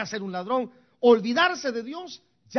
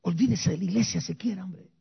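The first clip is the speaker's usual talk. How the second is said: mock whisper; faster than usual. Preacher mocks a leaving member.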